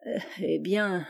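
hésitant, plus doux et lent; en bégayant. A narrator's reading. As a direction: bafouille sa réponse, paniqué. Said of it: "tout en bégayant". (hésitation apeurée, voix plus douce et lente)

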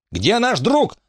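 намного выше, сдержанный гневный крик; требуй ответа; заорала. A narrator's reading. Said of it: "заорала на неё Эмма". (Эмма кричит на Фрэнки)

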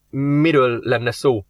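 slow, greedily interested ask; eager question. Acted. Worker eagerly asks the demon about the offer. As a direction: let a hint of greed show. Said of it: "hangjában mohóság csendült".

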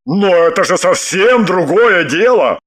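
man's emphatic exclamation; exclaiming. A narrator's reading. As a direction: exclaim it as a pleased realization. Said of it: "воскликнул мужчина". (восклицание)

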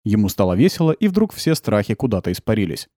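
ordinary delivery

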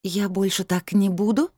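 playful fake hesitation; mock doubt. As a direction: pretend to be unsure, cheekily. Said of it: "произнесла с напускным сомнением".

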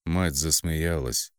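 ordinary talk, nothing marked

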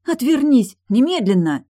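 shrieking command from the bed; furious yell. A narrator's reading. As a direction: scream at him to turn away. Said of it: "у Тильды прорезался голос".

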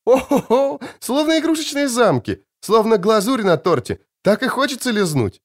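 put-on high, gushing girl's delight; high, gushing wonder at the castles. A narrator's reading. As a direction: gush over the view like a child.

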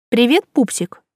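playful, teasing hello. A narrator's reading. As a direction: flirt teasingly. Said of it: "игриво ответила я".

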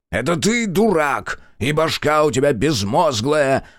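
sulky retort. A narrator's reading. Blushing, scowling fool answers a teasing, sulky retort. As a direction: hurl back a childish insult, offended. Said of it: "насупился покрасневший".

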